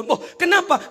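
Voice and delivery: a mother's sudden worry, lightly acted; startled mother. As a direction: play the shocked mother hearing odd news. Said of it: "kaget si ibu".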